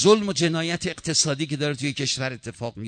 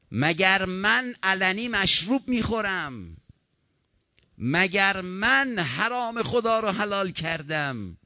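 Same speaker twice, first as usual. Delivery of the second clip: 1 pleading question; 7 semitones higher, slower than usual. Acted. Hussein pleading with the army.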